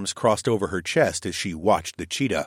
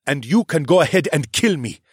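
defiant prisoner; 5 semitones higher, 4 dB louder than usual. A narrator's reading.

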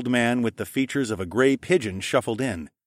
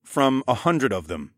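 deadpan; 4 semitones higher than usual. Acted. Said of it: "I deadpanned".

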